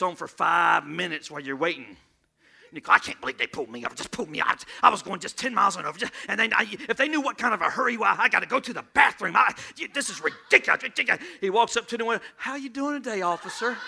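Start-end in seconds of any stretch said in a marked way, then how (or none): 2.9-11.2 quick, low muttered complaint; impatient driver, low and fast; grumbling driver. Retold or imitated. Speeding driver grumbling in car. 12.4-13.8 soft, sugary greeting to the trooper; butter up the officer softly; mock polite. Driver sweetly greets trooper.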